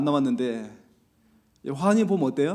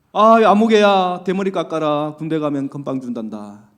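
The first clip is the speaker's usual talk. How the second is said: teasing taunt; 2 semitones lower, 5 dB louder than usual. Retold or imitated. Village big boys tease the little kid, mock taunting. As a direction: jeer like a village big brother. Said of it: "동네 형들이 놀려요".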